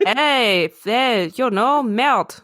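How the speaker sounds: mock-indignant French skunk; French accent. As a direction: swear back in a put-on French accent. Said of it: "the skunk had a French accent".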